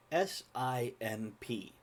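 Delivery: slow letter-by-letter spelling. Shown as a demonstration. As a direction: spell it out slowly. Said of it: "the word".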